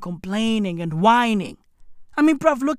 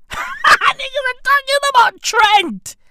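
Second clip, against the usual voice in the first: laughing exclamation; 12 semitones higher, 4 dB louder than usual. Real, not acted. Laughing at the fans.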